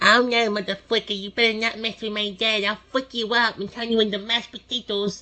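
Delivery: put-on minuscule, tiny, soft baby voice. Voicing a character with an even tinier version of a baby voice. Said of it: "the voice I give him is basically my baby voice".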